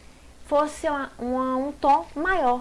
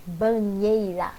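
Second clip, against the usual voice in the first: Banheira said slowly as a whole word; slow, careful word; 3 semitones lower, slower than usual. Shown as a demonstration. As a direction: draw out Banheira without breaking it. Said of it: "a separação de sons".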